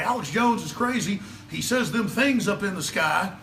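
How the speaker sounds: high mocking voice of a TV comedian mocking him; mocking impression. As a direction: sneer it like a late-night host making fun. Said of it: "they make jokes and say".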